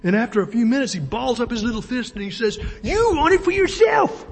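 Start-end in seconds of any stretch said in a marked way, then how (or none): 2.8-4.3 high, strained angry cry; angry Bilbo. Acted. Bilbo arguing with Gandalf over the ring, angry high outburst. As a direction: shout it high, balling up little fists. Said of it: "And Bilbo grows angry".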